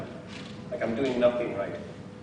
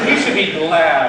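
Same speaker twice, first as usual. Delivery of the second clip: laughing mock advice; 2 semitones higher, 11 dB louder than usual. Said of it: "the last thing you want to hear is".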